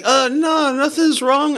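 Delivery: high, jittery nervous voice; nervous denial. Retold or imitated. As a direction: squeak it out like you're scared of her. Nervous denial to knife-wielding date.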